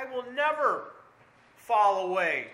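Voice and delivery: Peter's loud, passionate vow; fervent vow. Acted. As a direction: swear it with all his heart. Voicing Peter's vow to Jesus.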